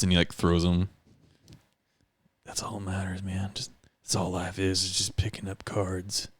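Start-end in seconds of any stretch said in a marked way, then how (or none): 2.4-3.7 whisper. Acted. Brooding detective musing.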